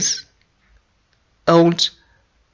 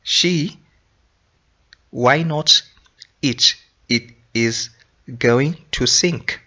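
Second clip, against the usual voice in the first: puzzled question; 2 semitones higher than usual. Shown as a demonstration. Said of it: "So you start thinking".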